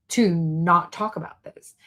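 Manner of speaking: hushed whisper of a secret. Real, not acted. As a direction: whisper it as if it were forbidden. Aside about being silenced.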